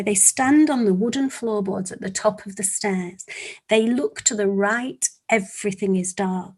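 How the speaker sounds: measured, suspenseful storytelling; story narration. Acted. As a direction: narrate to children, pausing between phrases.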